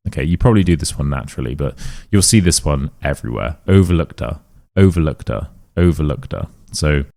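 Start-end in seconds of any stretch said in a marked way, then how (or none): 3.7-6.5 "overlooked-er" with k-t sliding into the next vowel; linked overlooked-er. Shown as a demonstration. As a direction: say "overlooked-er" as one smooth run. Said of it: "This vowel takes the consonant".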